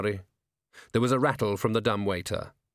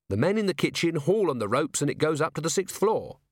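higher, dutiful subordinate voice; Carrot, earnest constable explaining; 6 semitones higher than usual. Acted. Constable explaining the dumb waiter to commander, earnest.

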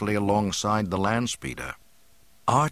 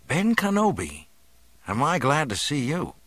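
much higher-pitched youthful voice; relieved young man; 6 semitones higher than usual. A narrator's reading. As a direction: greet a welcome rescuer. Relieved youth greets his rescuer.

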